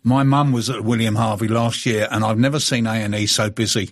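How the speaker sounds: measured radio read-out of a message; reading aloud. Acted. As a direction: read a listener's tweet out on air. Reads out a listener's tweet.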